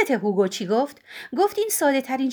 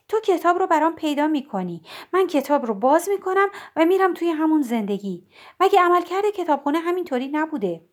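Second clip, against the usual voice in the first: put-on lightly raised, questioning young woman; Nora's voice; 4 semitones higher than usual. Nora pressing Mrs Elm about the library, lightly raised voice.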